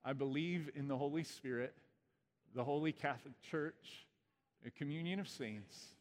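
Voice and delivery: creed recitation. Acted. Leads Apostles' Creed recitation.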